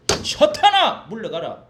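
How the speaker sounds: loud, high, drawn-out 사탄아 then firm 물러가라; rebuke Satan. Shown as a demonstration. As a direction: command the devil out with full force. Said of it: "이렇게 할 땐". (사탄을 꾸짖는 외침)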